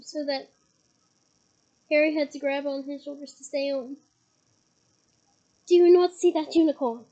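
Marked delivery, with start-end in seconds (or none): 5.7-7.1 bellowed. A narrator's reading. Firenze rears up and shouts at Bane, bellowing. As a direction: hurl the question at him. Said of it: "Firenze bellowed at Bane".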